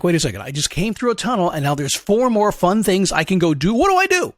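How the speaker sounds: lightly voiced bewildered dog, pitch leaping up at the end; puzzled dog. Dog asking handler which obstacle, lightly voiced puzzlement. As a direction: act a dog faced with too many choices. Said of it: "in a dog's world, he's like".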